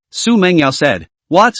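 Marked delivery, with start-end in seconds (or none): 1.3-1.5 sharp startled question; surprised. A narrator's reading. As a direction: blurt it out in surprise. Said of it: "Shen Chang said in surprise".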